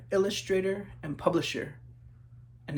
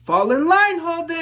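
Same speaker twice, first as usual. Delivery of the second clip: higher, louder sharp order; stern teacher call; 11 semitones higher, 14 dB louder than usual. Acted. Teacher scolding the daydreaming Holden, loud stern call. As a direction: snap the boy back into line.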